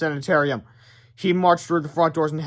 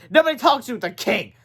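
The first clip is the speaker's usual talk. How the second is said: stern nurse; 7 semitones higher, 3 dB louder than usual. Acted. Nurse refusing.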